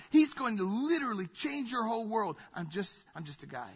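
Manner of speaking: a hint of a tearful humble prophet; earnest John the Baptist. John the Baptist telling the crowd he is nothing, earnest. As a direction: plead it as John, humble and moved. Voicing John's humble plea.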